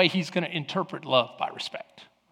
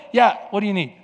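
curt answer; faster than usual. Retold or imitated. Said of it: "picking up the phone going".

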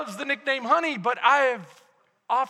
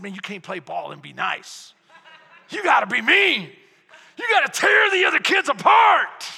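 building to a coach's shout; dad yelling at his son to get mean; urging shout; 6 dB louder than usual. Retold or imitated. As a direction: fire the boy up, louder each line.

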